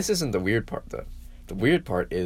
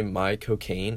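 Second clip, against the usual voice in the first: British accent; 3 dB quieter, much slower than usual. Shown as a demonstration. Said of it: "in a British accent".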